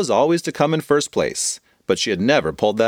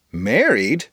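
puzzled question. Acted. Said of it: "questioned her friend".

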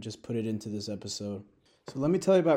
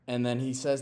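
ordinary talk

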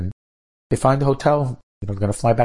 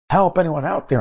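higher-pitched call for help; radio distress call; 8 semitones higher than usual. Acted. Stranded passenger radioing anyone who might hear, calling out for help.

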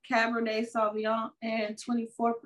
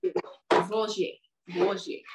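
bad French accent; 3 semitones lower than usual. Shown as a demonstration. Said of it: "my French accent sucks".

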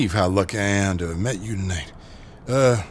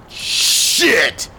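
a louder, higher burst of dismay; alarmed curse; 9 semitones higher, 4 dB louder than usual. Acted. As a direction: blurt it out as it sinks in. Realizing what envelope holds.

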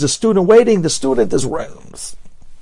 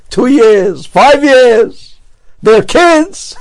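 climbing higher and louder on each phrase; rising exasperation; 8 semitones higher, 7 dB louder, much slower than usual. Retold or imitated. Rosh Kolel tells the Chazon Ish about money, rising exasperation. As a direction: build it up in disbelief.

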